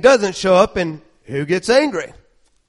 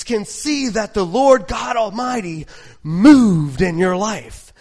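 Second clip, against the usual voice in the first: slow, rising preacher's cadence; soaring sermon delivery; full-force preaching; 3 semitones higher than usual. Real, not acted. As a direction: preach it with fire. Preaching over music.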